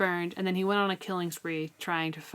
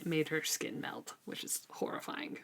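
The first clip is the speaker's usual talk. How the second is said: hushed whisper; 8 dB quieter than usual. Real, not acted. Telling horrifying detail.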